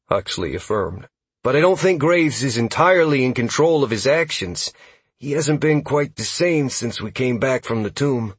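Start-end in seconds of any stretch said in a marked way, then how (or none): 1.4-8.3 higher-pitched scout character voice; lightly raised, earnest character voice; elf scout. Acted. Narrator voices elf scout Huxley.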